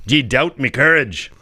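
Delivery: lightly Scottish, drawn-out indignant question; Scottish accent. Acted. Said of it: "Can you do a Scottish accent?".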